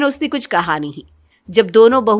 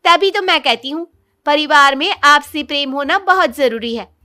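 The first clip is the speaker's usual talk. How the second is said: blurting out; 8 semitones higher, 6 dB louder than usual. Acted. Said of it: "सीमा बोल पड़ी".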